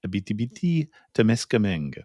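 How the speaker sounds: Abitibi-Temiskaming said with English sounds; English speaker trying Abitibi-Temiskaming; anglicized attempt. Shown as a demonstration. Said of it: "I'm gonna try and say it".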